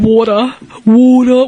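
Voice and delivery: water as "wooh-tuh", rounded; mock water with an exaggerated O vowel; water, no final R, big rounded first vowel; mocked Aussie pronunciation. Shown as a demonstration. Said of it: "Where's the O in there?".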